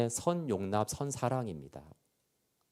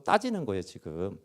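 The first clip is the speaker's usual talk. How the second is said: ordinary talk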